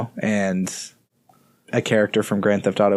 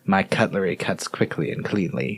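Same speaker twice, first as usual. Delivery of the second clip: creepy serial killer; 4 semitones lower, 4 dB quieter than usual. Acted. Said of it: "save that line for a serial killer movie".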